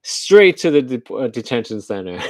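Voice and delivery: deadpan robot sentence; car's cold reply. Retold or imitated. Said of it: "Where are you taking me".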